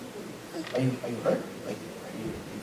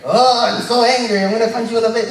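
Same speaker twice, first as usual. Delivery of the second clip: mock angry; 5 semitones higher, 4 dB louder than usual. Preacher acting out an impossible joyful-yet-angry person, mock angry. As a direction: play at being furious, pitched up. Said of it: "joyful and angry".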